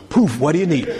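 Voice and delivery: tired genie popping out; weary magic genie voice. Retold or imitated. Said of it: "jump out and go".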